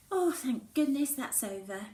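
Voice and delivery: relieved. A narrator's reading. Mallory relieved at the school gate. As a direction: let the whole day go in one breath.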